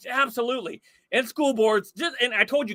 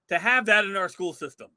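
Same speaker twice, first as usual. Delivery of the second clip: ordinary talk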